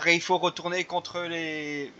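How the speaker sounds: phrase de méchant laissée en suspens, plus doucement; voix qui s'éteint. Retold or imitated. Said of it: "je vais pas finir ma phrase". (voix de méchant qui s'éteint)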